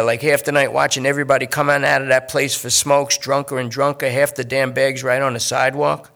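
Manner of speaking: a nervous addict talking his way out; junkie Lester. Acted. Junkie Lester pleads with detective.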